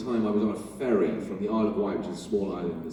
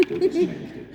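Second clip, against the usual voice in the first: high squeak; 4 dB louder than usual. Pretend. Joking aside, high squeak.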